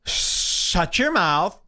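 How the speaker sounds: slow, drawn-out mock yell; a hammed-up prissy scold; feminine mock yell. Mocking the comic's heckler comeback, slow mock yell. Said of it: "very feminine way to yell".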